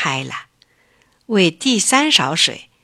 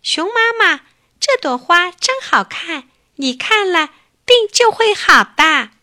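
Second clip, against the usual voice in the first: much higher, louder rooster; sharp high rooster voice; 10 semitones higher, 5 dB louder than usual. Acted. Rooster gives mother bear a flower, very high sharp voice. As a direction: squeak it out like a proud rooster. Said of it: "用尖尖的声音对熊妈妈说".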